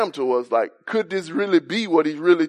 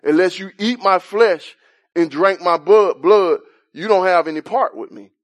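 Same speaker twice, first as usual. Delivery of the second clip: voicing Jesus; 4 semitones higher, 4 dB louder than usual. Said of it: "he said".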